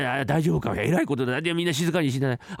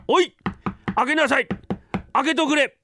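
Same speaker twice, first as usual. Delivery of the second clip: master shouting; 13 semitones higher than usual. Acted. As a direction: pound on the door and yell to be let in.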